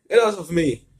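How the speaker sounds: loud, high villain yell; shout. Acted. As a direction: shout to shake the twins off. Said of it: "Mantax shouted".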